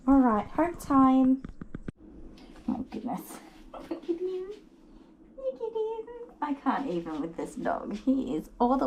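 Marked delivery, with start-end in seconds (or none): 2.7-6.1 soft breathy gush over the dog; soft awestruck gush at a hugging dog; hushed gushing. Real, not acted. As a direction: melt over the dog in a hush.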